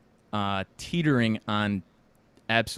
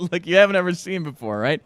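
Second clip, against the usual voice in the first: loud, higher Trump boast with a laugh breaking in; Trump impression; 7 semitones higher, 8 dB louder than usual. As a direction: ham up the Trump brag, laughing midway. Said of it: "He's like".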